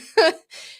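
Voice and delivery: a short high laugh. Real, not acted. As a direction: laugh at yourself. Laughing at own story.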